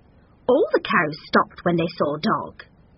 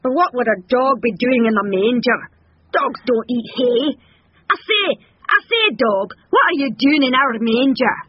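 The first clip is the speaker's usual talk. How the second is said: higher, blustering bull voice; indignant bull; 5 semitones higher, 5 dB louder than usual. A narrator's reading. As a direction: bluster at a dog in the manger. Bull questions dog in story.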